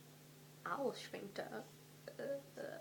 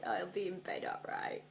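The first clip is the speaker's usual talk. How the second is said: sly whisper. Acted. Voicing Ron's sly retort.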